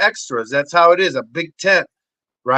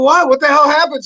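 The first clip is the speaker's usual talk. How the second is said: surprised; 10 semitones higher, 5 dB louder than usual. Retold or imitated. His stunned reply retold.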